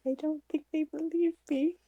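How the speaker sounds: embarrassed soft grumble; muttering. Acted. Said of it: "she kind of mutters to herself".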